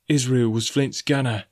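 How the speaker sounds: slow, hoarse warning from a sailor. A narrator's reading. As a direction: say it hoarsely, drawing out the words. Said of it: "said Gray hoarsely".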